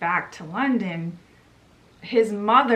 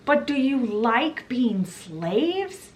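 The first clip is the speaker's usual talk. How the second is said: slow, higher, drawn-out challenge; mock yell; 4 semitones higher, slower than usual. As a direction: imitate pleading with a crowd, without real volume. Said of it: "John is still yelling".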